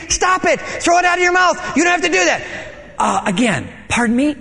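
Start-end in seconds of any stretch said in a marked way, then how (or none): 0.1-2.4 high shouting command; screaming God. Retold or imitated. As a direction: yell it full volume, high. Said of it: "full volume, is scream-, screaming".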